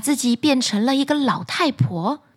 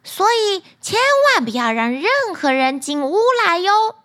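dwarf voice; 6 semitones higher than usual. Acted. Dwarfs warn Snow White.

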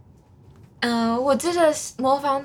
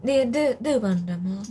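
put-on Japanese accent. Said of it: "一段日本腔那样子".

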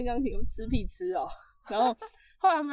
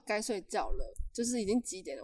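nice and gentle; 3 semitones lower, 6 dB quieter than usual. Retold or imitated. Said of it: "我就好声好气哦".

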